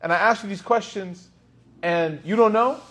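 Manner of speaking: high, exasperated complaint from the frustrated traveller; frustrated visitor. Retold or imitated. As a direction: pitch it up and vent his frustration. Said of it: "And he goes".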